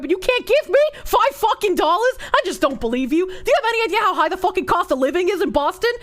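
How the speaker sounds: angry rant in a hammed-up Boston accent; thick Boston accent. Streamer rants at a cheap donor in a Boston accent. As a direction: play a furious Boston local mocking a broke viewer. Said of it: "Do it with a thick Boston accent".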